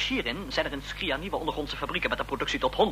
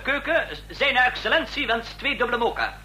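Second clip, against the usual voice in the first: hoger, met een lach erdoor; lachend bestellen; 8 semitones higher than usual. Acted. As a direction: giechel de bestelling door. Verlegen bestelling door telefoon. (lacherig en hoger tegen de keuken)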